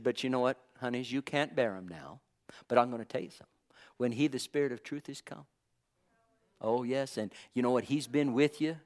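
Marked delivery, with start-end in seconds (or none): 0.0-5.5 soft, low, fond address; Jesus calling them honeys, soft and tender; tender hush. Retold or imitated. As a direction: speak fondly to dear ones. Jesus voiced softly to disciples.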